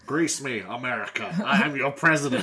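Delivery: lofty stately oratory; grand presidential address, booming; statesman voice. Pretend. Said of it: "it's just my statesman voice".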